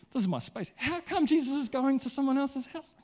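high, whiny, wounded complaint; jealous churchgoer. Retold or imitated. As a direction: whine about someone taking your seat.

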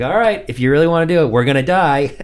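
resigned mock Venom. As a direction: give in with comic dread. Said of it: "And then he's like".

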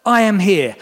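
high, loud call of comfort over the waves; reassuring call, high and loud; Jesus calling out. A narrator's reading. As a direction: call out to reassure terrified disciples. Jesus voiced in story.

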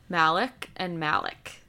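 Malik and Malik, both as "MAL-ick"; saying both alike. Shown as a demonstration. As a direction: say each Malik with first-syllable stress, MAL-ick. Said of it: "no difference".

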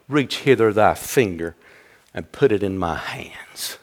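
low, soft, sinking toward a whisper; gentle invitation. Acted. Preacher voicing Jesus to doubting Thomas, gentle invitation. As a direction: invite softly, almost under the breath.

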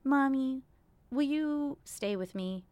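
lightly voiced child asking mommy to stay; imagined child asking.

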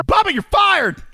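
high, loud mock yell; mock shout. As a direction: bark it like an angry boss. Mock yelling at co-host.

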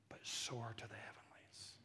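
a soft, awed whisper; hushed whisper. Real, not acted. Preacher voicing Jesus's words to the church in a reverent whisper. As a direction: let it fall to a breath.

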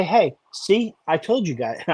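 condescending. Pretend. Host playfully gloating at doubting fans, condescending. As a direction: tease them with a playful I-told-you-so. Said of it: "I'm not gonna say it like that, like, you know, condescending".

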